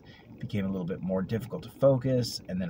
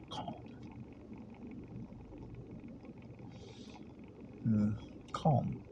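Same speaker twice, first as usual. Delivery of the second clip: calm mantra; 10 dB quieter, slower than usual. Retold or imitated. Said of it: "'cause each time it was".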